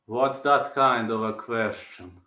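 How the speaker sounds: low, slow fighter's retort; lightly voiced impression, words stretched; slow it down and drop the pitch; Prohaska impression. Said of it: "that impression is on point".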